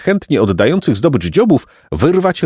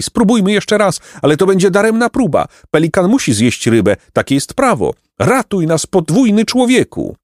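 high-pitched plaintive pelican; wailing birds; 10 semitones higher than usual. A narrator's reading. Pelicans begging Jacek to save them, wailing. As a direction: plead in a high, despairing bird voice. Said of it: "wrzasnęły ptaki".

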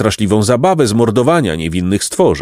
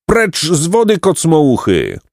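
screamed order; 7 semitones higher than usual. A narrator's reading. Beaver yells at boys in his water, high scolding cry. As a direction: order them off on a raised pitch. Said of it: "wreszcie wrzasnął".

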